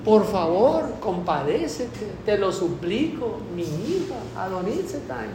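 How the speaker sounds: a mother pleading, from a cry to a soft beg; crying out for help. Retold or imitated. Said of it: "Dime qué viene gritando". (madre suplicando a Jesús: de grito a ruego suave)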